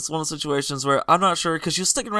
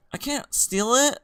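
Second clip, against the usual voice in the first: mock girly voice; 10 semitones higher, slower than usual. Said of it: "she's just like".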